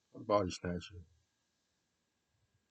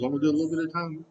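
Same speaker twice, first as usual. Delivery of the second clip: imitating him; 7 semitones higher, 4 dB louder, faster than usual. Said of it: "He says".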